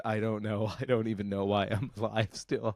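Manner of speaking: put-on soft, dry old aunt with a faint laugh; retelling the great aunt's dry line, quiet and deadpan. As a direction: say it low and weary as the aunt. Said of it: "the fact that my great aunt said".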